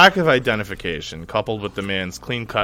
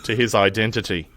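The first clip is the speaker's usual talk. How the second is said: mild Australian accent. Shown as a demonstration. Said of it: "my shittiest Australian accent".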